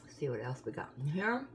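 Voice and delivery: talking through a mouthful; words round a bite of chocolate; mouth full. Real, not acted. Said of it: "I'm gonna talk with my mouth full".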